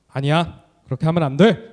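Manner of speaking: put-on a mild firm scold to a child; gently stern teacher voice. Shown as a demonstration. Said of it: "이렇게 훈육을 하면은".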